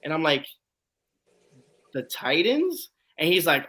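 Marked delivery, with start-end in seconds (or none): 1.9-2.9 retold puzzled question, pitch climbing high at the end. Fan questioning an actor in Titans gear, puzzled. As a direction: echo it back, mildly incredulous.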